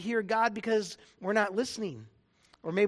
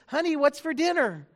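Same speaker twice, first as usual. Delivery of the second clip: polite voice; 4 semitones higher, 4 dB louder than usual. Retold or imitated. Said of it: "his polite a voice".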